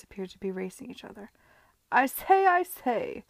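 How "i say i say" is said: high, loud cry of alarm. Acted. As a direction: call out to stop them. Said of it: "cried Arthur".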